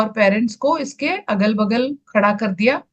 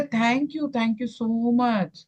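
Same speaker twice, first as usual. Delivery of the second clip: soft grateful thanks; 7 dB quieter, much slower than usual. Retold or imitated. Quoted prayer to the water.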